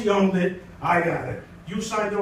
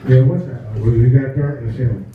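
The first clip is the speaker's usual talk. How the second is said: acted phone dialogue; 9 semitones lower, 7 dB louder than usual. Dialogue, louder lower voices.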